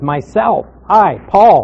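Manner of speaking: "Myself", then "I, Paul" with weight; emphatic self-naming. Shown as a demonstration. Pastor quotes the Greek word order, emphatic self-naming. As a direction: set "Myself" apart, then press on "Paul". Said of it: "he's emphasizing there".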